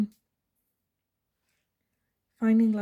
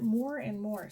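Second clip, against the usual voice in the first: more and more in a Dutch English accent. Real, not acted. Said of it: "sorry, that was my Dutch English accent".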